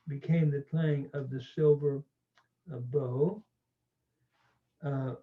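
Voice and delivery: usual speaking voice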